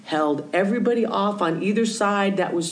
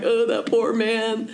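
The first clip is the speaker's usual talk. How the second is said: pitying; 5 semitones higher than usual. Retold or imitated. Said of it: "I'm like".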